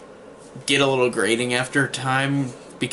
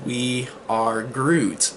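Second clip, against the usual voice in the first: emotional Groot line; much slower than usual. Retold or imitated. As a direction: let "We are Groot" land slowly and gently, each word drawn out. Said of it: "one of the most emotional scenes".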